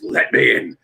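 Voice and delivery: a lightly voiced imitation of The Fiend's catchphrase; creepy Fiend voice. Host repeating the wrestler's catchphrase for his friends, mild creepy voice. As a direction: murmur "Let me in." low and eerie, but only a hint of it. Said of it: "that is so creepy and cool".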